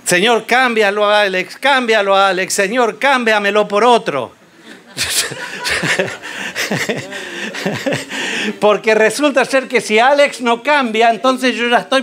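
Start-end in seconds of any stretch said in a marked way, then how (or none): 0.0-4.3 oración burlona. Retold or imitated. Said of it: "Que lo cambie a Alex". 5.0-8.5 risa. Real, not acted. Risa tras la oración burlona.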